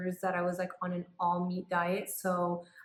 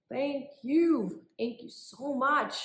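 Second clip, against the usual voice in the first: higher gushing thank you; grateful body voice; 5 semitones higher, slower than usual. Retold or imitated. Body thanking her for animal fat, higher and gushing. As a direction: gush with relief as the body.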